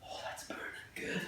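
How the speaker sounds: breathless whisper through the ab burn; strained whisper. Real, not acted. Trainer to viewers, feeling the burn: strained whisper. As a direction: push the words out on air, no voice.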